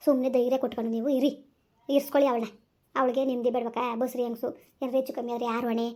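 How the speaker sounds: low-pitched, mildly scolding reassurance; counselling neighbour. Acted. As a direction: reason firmly in a low voice. Neighbour firmly counsels weeping parent.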